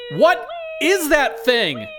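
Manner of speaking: high, slow, stretched-out yell; yelling over noise. Acted. Steve yells to coworkers over the siren, high yell. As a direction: yell each word over a blaring siren. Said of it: "Steve yells over the siren".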